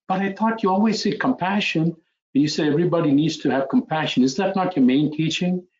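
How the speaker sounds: retelling a stunned protest, lightly acted; shocked disbelief. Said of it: "Ananda shocked, his jaw drops".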